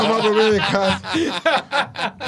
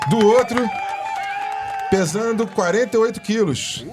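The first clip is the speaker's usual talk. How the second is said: fight promoter; 5 semitones higher than usual. Pretend. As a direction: hype the second fighter's weight. Apresentação de luta entre debatedores. (locutor de luta)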